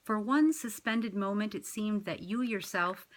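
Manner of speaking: measured, reflective poem read. Acted. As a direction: read it like your own poem, savouring the lines. Reads her own poem.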